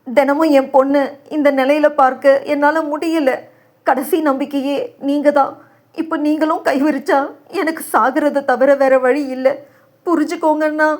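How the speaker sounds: high, hushed, desperate begging; desperate plea. Acted. Father begs brother not to abandon him, desperate. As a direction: beg as if at the end of hope.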